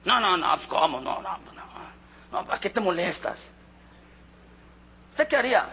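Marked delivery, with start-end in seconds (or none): 0.0-3.4 bashful refusal. Retold or imitated. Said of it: "¿Tú, tú qué haces?".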